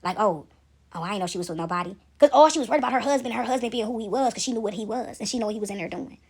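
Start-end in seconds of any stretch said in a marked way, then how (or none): 0.0-2.0 mock cowering. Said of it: "I can see her soften and cower like".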